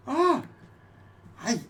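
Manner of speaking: big booming dragon voice. Acted. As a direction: roar it out as a huge dragon. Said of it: "her dragon voice is a lot bigger".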